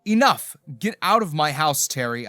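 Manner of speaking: dramatized angry shout; screamed command. A narrator's reading. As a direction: yell at them to leave, cutting it off hard. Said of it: "I screamed as I pointed".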